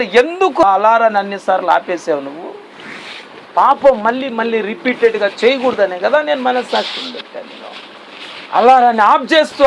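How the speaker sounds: God questioning. Acted. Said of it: "దేవుడు question చేస్తున్నాడు".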